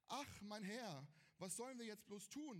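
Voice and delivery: earnest scripture reading of the servant's lament; reading the Bible aloud. Shown as a demonstration. Preacher reading the verse to the youth group, earnest. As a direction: read the servant's cry straight from the page. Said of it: "ja, also, hallo, ne?".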